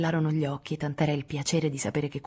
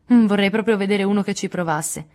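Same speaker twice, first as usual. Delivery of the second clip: loud, higher, bold challenge; proud defiance; 5 semitones higher, 7 dB louder than usual. A narrator's reading. Jo answers Laurie's teasing about suitors, proudly defiant. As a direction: dare anyone to try it. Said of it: "esclamò fieramente Joe".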